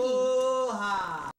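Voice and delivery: slow high squawked aloha; parrot voice. Real, not acted. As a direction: stretch it like a talking bird. Bird says aloha.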